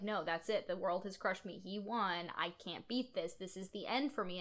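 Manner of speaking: soft, defeated retelling; giving up. Retold or imitated. Retelling Roy giving up to the girl, defeated. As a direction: say it quietly, as if beaten. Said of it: "this is Roy giving up".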